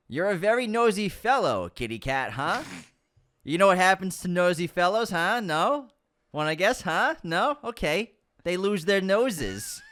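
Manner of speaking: Chinatown gangster impression. Film quote to friends, menacing taunting gangster voice. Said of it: "I like the impression".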